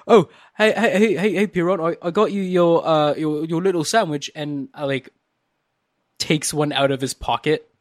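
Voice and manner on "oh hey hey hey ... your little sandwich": higher-pitched, talking through a mouthful; words round a mouthful of food; mouth full. Acted. JJ greets Piron while stuffing his face with cheese, mouth full. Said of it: "mouthful, just like".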